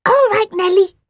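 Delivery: a lightly voiced monster growl; little monster growling back. A narrator's reading. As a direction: growl it gently. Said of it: "growled Phoebe".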